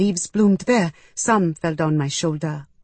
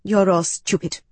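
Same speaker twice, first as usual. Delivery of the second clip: spat out; 2 semitones higher than usual. Acted. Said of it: "I spat".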